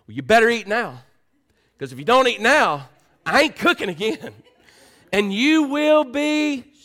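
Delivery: loud, high mock scolding; hammed-up motherly ultimatum, pitched high; mom's scolding threat. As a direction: holler it like a fed-up mother. Mom's mealtime threat acted out.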